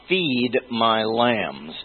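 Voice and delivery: "Feed my lambs" drawn out slowly, leaning on "Feed"; slow emphasis on feed. Shown as a demonstration. Preacher quoting the Lord, dwelling slowly on "Feed". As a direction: stretch "Feed" and let "my lambs" follow slowly. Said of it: "You've got this double emphasis".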